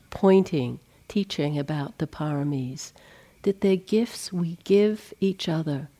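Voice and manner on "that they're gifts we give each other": breathy near-whisper, voice dropped; whispered aside. Real, not acted. Teacher whispering a gentle aside to retreat listeners, hushed. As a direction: let it slip out as a hushed whisper.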